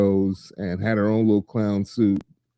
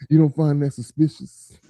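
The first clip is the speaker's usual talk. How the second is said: incredulous; 6 semitones higher than usual. Retold or imitated. Echoes the quote, hammier.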